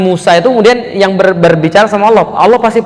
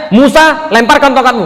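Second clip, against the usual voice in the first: firm divine command; 7 semitones higher than usual. Retold or imitated. Preacher voicing God ordering Moses to throw his staff, firm. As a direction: give the order like God speaking down. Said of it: "langsung tegas lagi".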